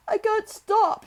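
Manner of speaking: very high, loud hysterical wail; gasping sob. A narrator's reading. Hysterical boy to Mary, gasping sob. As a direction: wail it out as if sobbing for air. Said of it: "he gasped and sobbed".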